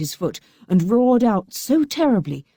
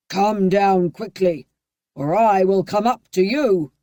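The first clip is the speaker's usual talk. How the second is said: mild bawling. A narrator's reading. Bluebeard bawling at his wife. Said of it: "as loudly as he could bawl".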